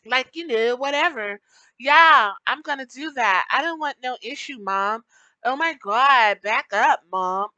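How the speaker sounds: lightly voiced teen brushing off mom; a hint of a bratty daughter talking back; mock teen to mom. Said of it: "when they're around their parents".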